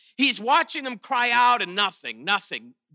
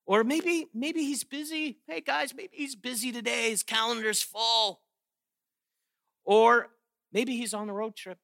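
a sly, hushed mocking jab; sarcastic taunt; 5 dB quieter than usual. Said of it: "Total soaked with sarcasm".

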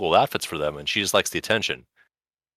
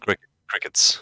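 whispered crickets; slower than usual. Pretend. Joke about the silence.

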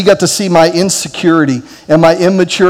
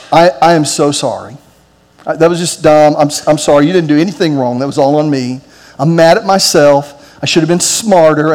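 lower, gentle and earnest; retold sincere apology; 4 semitones lower than usual. Dad apologizing to his son Daniel, lower and sincere. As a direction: say sorry like you truly mean it.

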